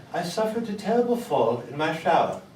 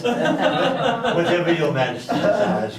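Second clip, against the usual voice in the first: usual speaking voice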